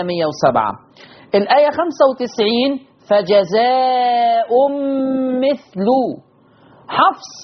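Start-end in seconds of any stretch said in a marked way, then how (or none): 3.1-5.9 slow فجزاء with tanween, then مثل ending in -lu; long aa and humming nasal ending on فجزاء; Hafs reading. Shown as a demonstration. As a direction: draw out "fajazaa'um mithlu" for فجزاء مثل. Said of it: "قرأ بتنوين الهمزة".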